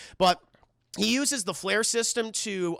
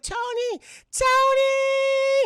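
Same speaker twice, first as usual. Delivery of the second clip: high, loud frantic call; 5 dB louder, much slower than usual. Retold or imitated. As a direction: call his name in panic. Pepper calling out.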